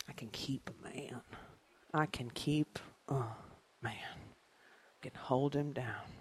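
soft, slow whisper; whispered boast. Real, not acted. Comedian whispering a brag to the audience. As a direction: confide it like a secret brag. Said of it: "whispered boast".

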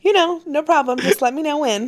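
high, amused, laughing through it. Real, not acted. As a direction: play along with a laugh. Playful reply, laughing.

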